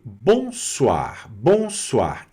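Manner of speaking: "bonsoir" with oi said as "wa"; French pronunciation demo. Shown as a demonstration. Teacher introduces the evening greeting, French pronunciation demo. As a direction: model "bonsoir" carefully as bon-swar, falling. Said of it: "onde nós temos uma pronúncia".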